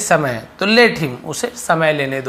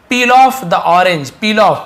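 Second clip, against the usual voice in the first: slow model sentence; 3 semitones higher, 5 dB louder, much slower than usual. Shown as a demonstration. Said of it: "peel off यानी छीलना होता है".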